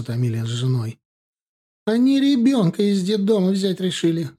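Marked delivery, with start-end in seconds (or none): 1.9-4.3 higher, sharp angry blurt; a mother blurting bad news, higher; blurted angrily. A narrator's reading. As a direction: spit it out in spite. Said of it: "зло выпалила".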